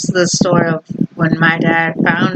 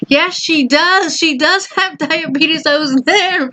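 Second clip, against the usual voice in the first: higher, mock-firm mom voice; imitating mom calling back down; mom insisting; 10 semitones higher than usual. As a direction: play the mom digging in, lightly voiced.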